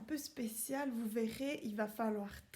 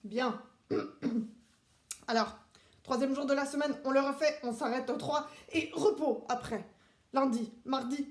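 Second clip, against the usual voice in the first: strict drill-sergeant teacher, clipped commands; drill instructor class; 5 dB louder than usual. Acted. Seb drilling the children on the days of the week, strict commands. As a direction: run the class like a military drill.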